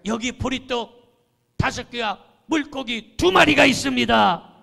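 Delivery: ringing proclamation of faith; bold faith-filled declaration. Shown as a demonstration. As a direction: proclaim it boldly to the congregation. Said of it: "이때 아멘 해야 돼요".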